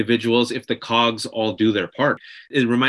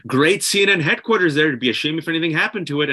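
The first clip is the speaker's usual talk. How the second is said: mock mobster menace, a bit higher; sweetly veiled threat, a bit quicker; smiling threat; 3 semitones higher than usual. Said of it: "almost a situation where".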